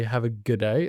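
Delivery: "good day" said in full words; misused phrase. Retold or imitated. Branding guy quotes people misusing the greeting, full "good day". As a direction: say "good day" as in an ordinary farewell. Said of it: "the best one is people say".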